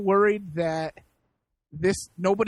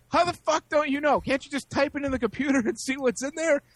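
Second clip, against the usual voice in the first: imitating a worked-up customer, pitched high; retold yelling; 5 semitones higher than usual. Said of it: "He starts yelling for some actress".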